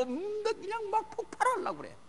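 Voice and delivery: high, strained imitation of a worked-up mother; mock about to explode. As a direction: act out a mother ready to blow up. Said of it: "엄마가 흥분해가지고".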